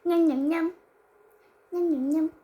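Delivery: loud eager yum yum. Real, not acted. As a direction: shout yum with delight. Eating ice cream loudly.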